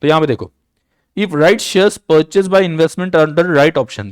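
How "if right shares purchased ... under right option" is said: very slow, word by word, as if for notes; slow, measured dictation. Shown as a demonstration. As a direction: read it out slowly for students to copy.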